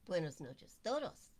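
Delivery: Buenas noches todos in Spanish; good Spanish accent. Shown as a demonstration. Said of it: "Good accent".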